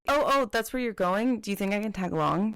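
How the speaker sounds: a light, hammed-up casual offer; mock casual. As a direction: act like you just happen to be going too.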